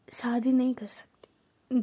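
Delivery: slow confiding whisper; secret whisper. Retold or imitated. Girl confiding in teacher, a slow whisper. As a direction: lean in and whisper the secret, slowly. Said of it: "वो भी ऐसे ही पास आके मेरे बोलती है".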